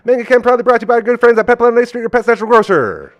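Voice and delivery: fast, loud sponsor read. Acted. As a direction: rattle off the sponsor plug.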